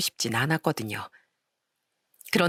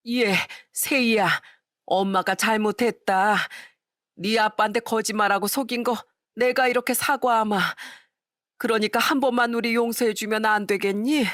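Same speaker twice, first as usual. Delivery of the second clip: begging stepmother; 4 semitones higher than usual. Acted. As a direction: beg stepdaughter to forgive. Stepmother begs at door.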